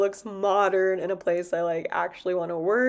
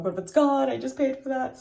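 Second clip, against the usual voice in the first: higher-pitched mock fretting; retold panic; 6 semitones higher than usual. Shopper fretting over paint left in cart, mock panic. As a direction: replay your own worry, pitched up. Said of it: "So I am panicking".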